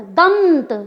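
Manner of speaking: दंत pushed through the nose and stretched; fully nasal दंत. Shown as a demonstration. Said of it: "पूरी तरह से नासिका से बोला गया".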